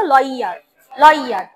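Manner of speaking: "লয়ার" said as "loi-yar" with full y glide; careful pronunciation. Shown as a demonstration. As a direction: model "লয়ার" clearly, falling, y emphasized. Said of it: "ভালো করে উচ্চারণ করো".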